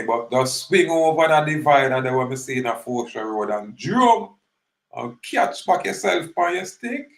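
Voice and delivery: acted-out urgent directions to mom; urging instructions. Voicing instructions to his old lady.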